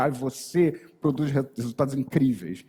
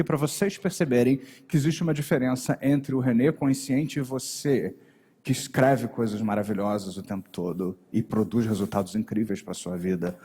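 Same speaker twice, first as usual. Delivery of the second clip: marked inflection; 5 semitones lower than usual. Shown as a demonstration. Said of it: "de uma forma mais didática pra vocês aqui".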